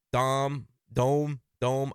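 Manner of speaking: lightly put-on New York twang on Dome; playful New York accent attempt, only a hint; mock New York accent. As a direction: stretch Dome out like a New Yorker. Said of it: "I'm trying to do my New York accent".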